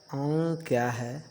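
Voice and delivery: अं slow and nasal with a rise. Shown as a demonstration. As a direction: hum अं through the nose, slowly. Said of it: "इसका उच्चारण नाक से होता है".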